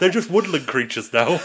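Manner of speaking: real laughter in the voice; amused laughing. Real, not acted. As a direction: riff on the absurdity while laughing. Joking about the vanished asylum seekers.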